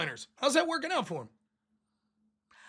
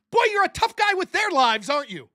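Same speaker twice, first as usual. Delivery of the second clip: sarcastic jab; 5 semitones higher, 4 dB louder than usual. Real, not acted.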